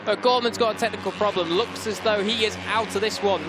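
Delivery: real alarm at the breakdown. Real, not acted. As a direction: jump up in concern. Rider suffers breakdown.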